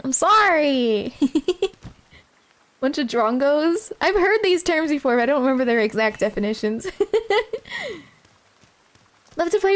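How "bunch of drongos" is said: slow, tentative mock Australian accent; mock Australian slang. Streamer testing chat's Aussie slang in slow mock accent. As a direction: try out the Aussie slang slowly and unsure. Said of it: "I'm butchering this".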